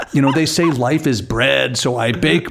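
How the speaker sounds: hint of a grumbling baker, no accent; lightly voiced Ronnie. Reenacting Ronnie's bread rant for a co-host, lightly voiced. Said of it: "I'm not even trying to do the accent".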